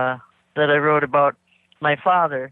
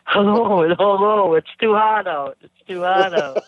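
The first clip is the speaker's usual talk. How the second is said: hint of an Arizona drawl; Arizona accent; 3 semitones higher, 3 dB louder, slower than usual. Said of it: "should I put my Arizona accent on".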